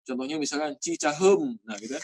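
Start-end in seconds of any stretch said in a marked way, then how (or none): 0.8-1.6 "Cicahem" with a schwa-like e in the last syllable; Sundanese e. Shown as a demonstration. Teacher gives Sundanese example, central e vowel. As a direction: say "Cicahem" slowly, ending in -həm. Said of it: "Orang Sunda biasanya ngomongnya e".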